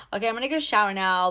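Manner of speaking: quick, offhand announcement; brusque. Acted. Guy getting straight up after sex, brusque. Brusque example of what not to do.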